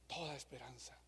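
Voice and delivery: "Toda esperanza" said low and almost breathless; "Toda esperanza" dropped to a low, despairing hush; hushed and sinking. Acted. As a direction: let "Toda esperanza" fade away to near silence. Repeats phrase, voice sinking.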